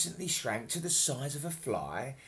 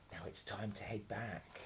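much softer hushed whisper; 4 semitones lower, 10 dB quieter than usual. Acted. Fairy tells Santa to leave, soft hushed whisper. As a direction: hush so the boy stays asleep. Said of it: "whispered to Father Christmas".

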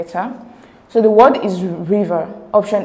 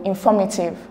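"informative" with the stress on "for". Shown as a demonstration. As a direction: lean on the second syllable, in-FOR-mative. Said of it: "the stress is on for".

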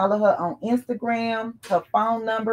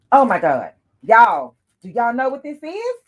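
excited; 4 semitones higher, 6 dB louder than usual. Real, not acted. Excited reveal to viewers.

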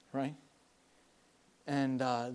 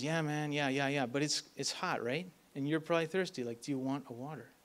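soft, patient offer; calm and gentle; 7 dB quieter than usual. Retold or imitated. John calmly offering the angry man water, soft and patient. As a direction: reassure an angry man quietly.

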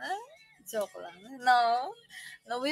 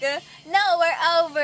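louder, higher mock dramatic dumping; mock breakup; 6 semitones higher, 11 dB louder, faster than usual. Retelling dumping her friend, louder mock drama. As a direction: declare it over with fake drama. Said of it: "And I'm like".

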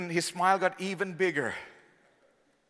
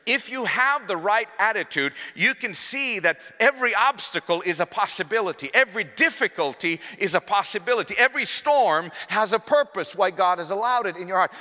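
rising preacher's shout, louder and higher; fervent preaching; 5 semitones higher, 5 dB louder than usual. Real, not acted. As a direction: hammer home the point from the pulpit. Preaching at full force.

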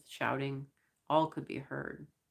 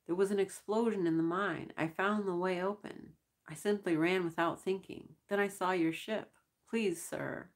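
a mild, somewhat higher wail; 5 semitones higher than usual. Acted. Prisoner wailing his story to the crewmen, mild wail. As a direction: plead with a hint of a wail. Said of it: "I wailed".

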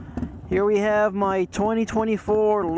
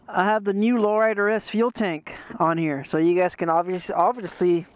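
muffled through a tight helmet; talking with a helmet on; inside a helmet. Real, not acted. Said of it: "the helmet's a little tight".

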